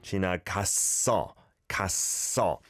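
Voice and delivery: 갔어 with a tense doubled s held on the first syllable, then carried into 어; 갔어 pronounced with a tight, tense ss bridging both syllables; careful model pronunciation. Shown as a demonstration. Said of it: "The double shiot sound is on that first syllable".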